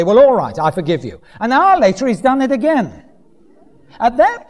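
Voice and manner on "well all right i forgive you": grudging acceptance, sinking lower; mock-reluctant forgiveness; begrudging. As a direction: give in reluctantly, voice dropping at the end. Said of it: "begrudgingly you might say".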